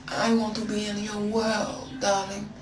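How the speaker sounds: lightly put-on French accent. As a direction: softly coo it with a French accent. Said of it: "I spoke in a French accent".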